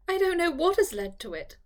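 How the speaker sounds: fighting back tears; almost crying. A narrator's reading. Eleanor protesting to Charlotte, almost crying again. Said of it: "almost crying again".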